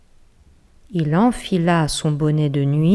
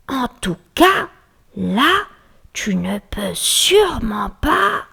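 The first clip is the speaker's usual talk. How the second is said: slow, higher little mouse voice; tiny voice; 5 semitones higher, slower than usual. Acted. Mouse hiding in the wardrobe in her tiniest voice. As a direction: speak as small as possible. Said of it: "prit sa plus petite voix".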